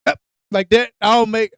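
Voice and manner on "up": imitating Pops. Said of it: "stupid noises like Pops".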